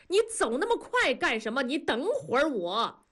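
high, hurried call. A narrator's reading. Man calling after his friend who hurried off, urgent. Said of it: "冲大庄喊".

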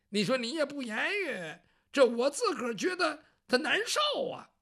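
lightly voiced grumbling eunuch; chatty eunuch. Eunuch Yang Zhong grumbles at silent Bao Zheng, lightly voiced. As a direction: complain half-jokingly.

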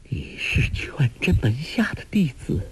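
panting, half-whispered words; gasping out the words between breaths. A narrator's reading. Wounded woman on Guo Jing's back, panting and breathless. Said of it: "又听他气喘喘地说".

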